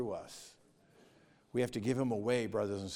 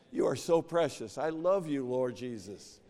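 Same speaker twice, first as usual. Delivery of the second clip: fervent loving prayer. Retold or imitated. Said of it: "don't say".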